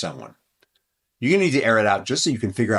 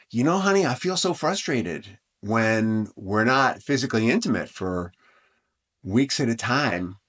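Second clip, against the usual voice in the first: calm I statement. Shown as a demonstration. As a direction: tenderly tell your partner what you need. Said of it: "So you can hear the difference between those two".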